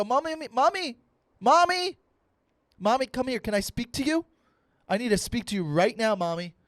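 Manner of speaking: very high, loud call for Mommy, easing down; whiny demanding kid. Retold or imitated. Son demanding to speak to his mommy, insistent. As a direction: pester Mommy in a high child's voice. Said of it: "that's how I spoke to my mom".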